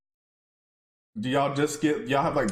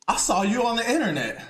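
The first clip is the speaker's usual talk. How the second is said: a lightly voiced old-school boss, higher and half laughing; imitating the old-school boss; 8 semitones higher than usual. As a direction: mimic the boss's line with a chuckle. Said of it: "That's exactly how he said it".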